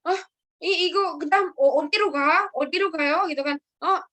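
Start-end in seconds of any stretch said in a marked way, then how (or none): 0.1-3.2 a hint of a puzzled driver, a bit higher; confused driver. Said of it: "Ajoshinya bingung". 3.8-4.0 higher, slowed polite passenger request; passenger asking. Retold or imitated. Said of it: "Gitu, ya".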